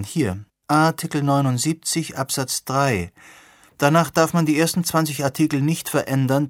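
lightly voiced young woman, keen and questioning; a hint of an earnest young activist; the speaker's voice. She reads her notes.

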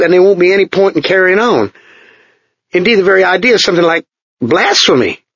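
a hint of an eager young technician; Chuck, the young engineer. A narrator's reading. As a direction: tell the secret with nervous excitement. Chuck voiced in the story.

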